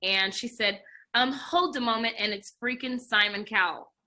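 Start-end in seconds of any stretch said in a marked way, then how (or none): 1.1-2.1 English woman. Retold or imitated. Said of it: "it's this English woman".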